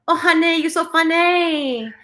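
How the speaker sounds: high, drawn-out Asian accent imitation. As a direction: mimic a comedian's Asian nail salon lady. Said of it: "she does, like, the accent".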